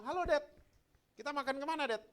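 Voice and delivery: put-on high-pitched girl calling to her dad; bright-eyed kid getting into the car; daughter's cheery greeting. Voices his young daughter greeting him.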